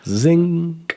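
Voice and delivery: high, punchy zing; quick high joke sting. Acted. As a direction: land the pun with a jump up. Punning on zinc.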